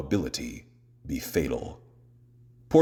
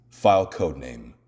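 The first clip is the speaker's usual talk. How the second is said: ordinary talk, nothing marked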